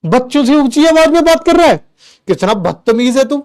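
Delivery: father scolds his son for raising his voice at the kids, mock outrage; scolding father. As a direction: mimic an outraged dad telling off his son. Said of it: "अब वो मुझे कहते हैं".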